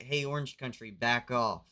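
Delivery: firm, punchy "back off" as a country; lightly acted territorial warning; mock warning. One country warns another off.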